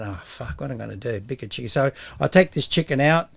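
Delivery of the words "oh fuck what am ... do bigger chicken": much softer, lower aside to himself; muttered panic. Retold or imitated. Butcher panicking privately over the too-small chicken, soft low mutter. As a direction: mutter it under your breath, panicked.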